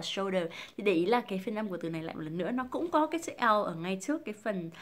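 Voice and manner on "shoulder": "shoulder" said as "show-der"; common wrong shoulder. Shown as a demonstration. Teacher mimicking learners, "shoulder" without its L. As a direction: leave the L out of "shoulder". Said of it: "Mọi người rất hay đọc là".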